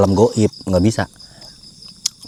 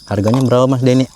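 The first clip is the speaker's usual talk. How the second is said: calling out; 3 semitones higher, 3 dB louder than usual. Real, not acted. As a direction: call across to Mas Denny. Calling to a seller.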